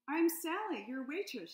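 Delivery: perky salamander waitress greeting; a hint of a chirpy waitress; Sally's voice. Waitress introduces herself.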